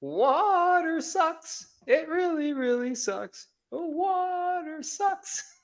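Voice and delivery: very high, drawn-out silly whine; Bobby Boucher. Acted. Host riffing during a lopsided game, high drawn-out Bobby Boucher. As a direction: stretch it out slowly, way up high. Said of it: "Bobby Boucher hour".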